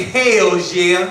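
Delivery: shouted call to the crowd. Shown as a demonstration. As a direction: lead the chant loud.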